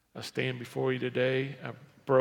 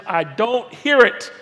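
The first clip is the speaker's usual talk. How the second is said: slow, high, very loud dismissal; loud rebuke; 7 semitones higher, 12 dB louder, slower than usual. Acted. Jesus rebuking the Pharisee's prayer, loud and emphatic. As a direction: thunder it out as a rebuke. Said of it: "he rebukes the prayer of the Pharisee".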